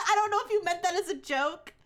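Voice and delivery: laughing. Real, not acted. Repeats sentence after laughing.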